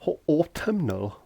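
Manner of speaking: autumnal said slowly, syllable by syllable, rising high; relishing the word autumnal, stretched out; drawn-out autumnal. Shown as a demonstration. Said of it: "got some really big words".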